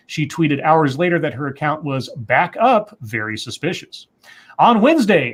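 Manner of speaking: measured, emphatic article reading; reading a news report aloud. Acted. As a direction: read it out like a news story, key words punched. Reads a news story aloud.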